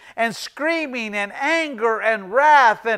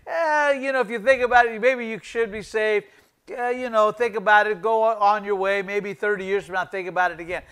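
mock casual shrug; 4 dB quieter, faster than usual. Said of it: "It didn't say".

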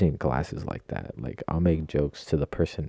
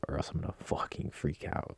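whisper; 3 semitones lower, 8 dB quieter than usual. Retold or imitated. Retold panic before his speech.

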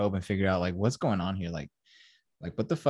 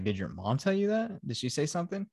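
retold suspicious questioning; 7 semitones higher, 5 dB quieter than usual. Retold suspicious father questioning son.

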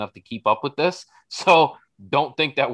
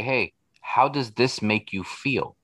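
gentle question; slower than usual. Shown as a demonstration. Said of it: "You say".

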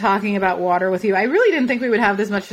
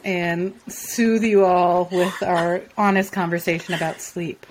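smooth jazz radio voice; 2 semitones lower than usual. Shown as a demonstration. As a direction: croon it like nighttime jazz radio. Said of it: "put on our smooth, our smooth jazz, like, nighttime radio voices".

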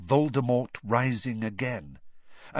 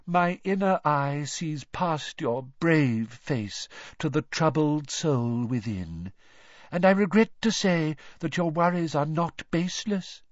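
mystical seer voice; 5 semitones higher than usual. A narrator's reading. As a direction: intone it like a doom-laden oracle.

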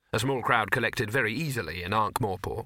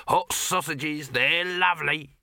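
high, slow hawker's call; vendor's cry; 5 semitones higher, 3 dB louder, slower than usual. Acted. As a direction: sing out your wares to passers-by. Vendor breaks off to hawk sausages.

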